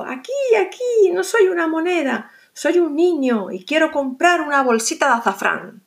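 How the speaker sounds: very high squeaky call, easing down; tiny high shout. Acted. Garbancito shouting to the shopkeeper, very high. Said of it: "gritó".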